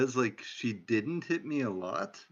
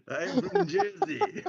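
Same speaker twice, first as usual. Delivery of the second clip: put-on high, slow Jersey accent voice; slower than usual. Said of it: "my Jersey accent".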